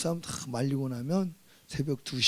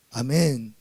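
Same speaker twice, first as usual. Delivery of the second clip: usual speaking voice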